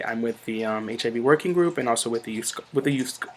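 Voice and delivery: tongue-tied slurring with a lisp. Real, not acted. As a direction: trip over the words, lisping. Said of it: "slurring my words and lisping today".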